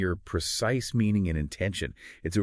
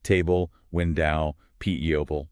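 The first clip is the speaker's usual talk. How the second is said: teacher's examples, "table" and "window" hit on the opening syllable; first-syllable stress; 3 dB louder than usual. Shown as a demonstration. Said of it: "stressed on the first syllable".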